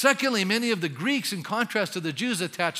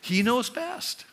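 slow He knows best, lifted higher; slow affirmation; 4 semitones higher, slower than usual. Shown as a demonstration. Preacher voicing a believer, slowly and higher. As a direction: stretch it out with conviction. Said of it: "why don't we just say".

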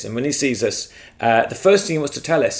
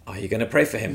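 soft, insistent inner voice asking; quiet inner nudge; 2 semitones lower, 5 dB quieter, faster than usual. Retold or imitated. Spirit nudging the storyteller to pray, softly. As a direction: nudge him gently with the question. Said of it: "I can hear the Spirit saying to me".

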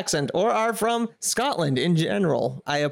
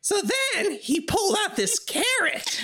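laughing. Real, not acted. Laughing while telling.

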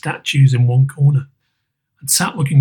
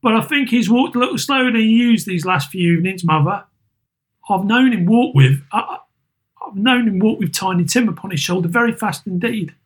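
higher, tired voice of a grieving mother; weary mother; 7 semitones higher than usual. Acted. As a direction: hide the tears behind small talk. Mother remembers Bob with Tim.

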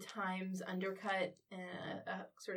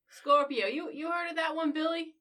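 higher, louder, mocking disbelief; incredulous official; 7 semitones higher, 6 dB louder than usual. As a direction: scoff at the name to a colleague. Factory official mocks intruder to colleague.

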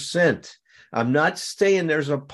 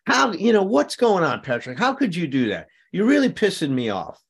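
mock angry confrontation; 5 semitones higher than usual. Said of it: "before honesty would have been to say".

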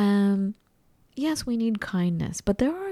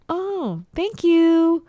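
high, swelling mock gratitude; exaggerated gratitude; 10 semitones higher, 6 dB louder, much slower than usual. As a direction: gush with relief, louder at the end. Acted relief at clear explanation.

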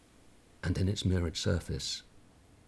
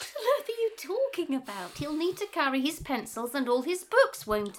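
indignant retort; 3 dB louder than usual. Acted. Wife argues back in quarrel.

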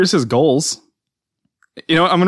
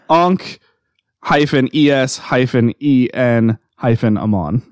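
dictating. Shown as a demonstration. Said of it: "is it literally written like that".

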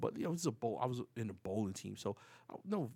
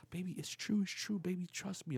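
lightly voiced wife, higher pitch; imitated wife reassuring him; pleading wife; 6 semitones higher, 3 dB quieter than usual. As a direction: coax your partner in a raised voice.

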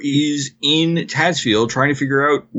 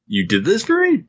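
acted surprise, pitched up into a question; higher, mock-astonished question; surprised; 6 semitones higher than usual. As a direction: imitate someone touched by surprise. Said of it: "He just looked so surprised".

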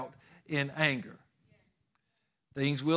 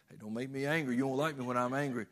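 tossed off quickly, kidding with friends; a kid's joking warning, fast and light; playful mock threat; faster than usual. Boy teasing friends with the Hulk line, fast mock threat. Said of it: "use that on all your friends".

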